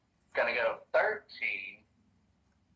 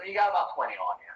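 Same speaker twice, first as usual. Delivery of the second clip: goblin voice; 6 semitones higher, much faster than usual. Acted. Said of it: "he looks and says".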